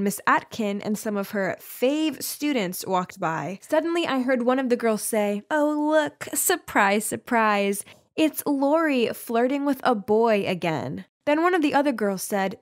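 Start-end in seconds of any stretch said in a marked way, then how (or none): 5.5-11.0 mock surprise, dragged out sarcastically; put-on mean-girl sneer; snide teasing. Mean girl mocks the narrator.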